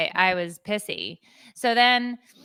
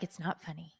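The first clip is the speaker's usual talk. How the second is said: "It's not funny" said much softer and flat, stress on "not"; flat denial; 3 semitones lower, 15 dB quieter than usual. Retold or imitated. Wife to husband, "It's not funny" said flat and quiet. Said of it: "I'm like".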